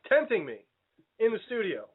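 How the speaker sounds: talking with a mouth full of cookie; words round a bite of candy. Real, not acted. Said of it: "the listeners need more of you talking with your mouth full".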